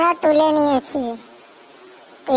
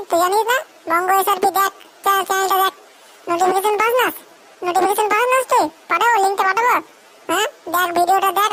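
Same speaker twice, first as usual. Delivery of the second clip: put-on scolding girlfriend; 2 semitones higher than usual. Girlfriend scolds boyfriend, higher voice.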